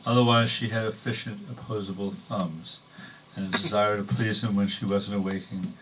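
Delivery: measured poem delivery in short phrases; poetry reading. Acted. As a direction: read a wry poem to an audience, pausing between phrases. Reads own poem to audience.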